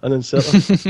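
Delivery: "inserter" with a missing T. Real, not acted. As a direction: say "inserter" with the T dropped. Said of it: "remove all T's from the word".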